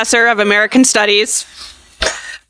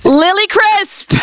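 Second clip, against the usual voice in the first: slow announcing call; 6 semitones higher, slower than usual. Real, not acted. Calling graduates to the stage.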